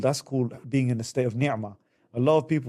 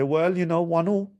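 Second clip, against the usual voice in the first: smug scorekeeping; 4 semitones higher than usual. Retold or imitated.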